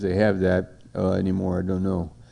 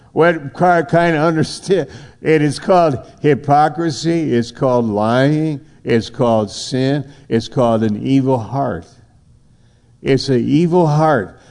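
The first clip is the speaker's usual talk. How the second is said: preaching denunciation; 4 semitones higher than usual. Real, not acted. Preacher denounces lying.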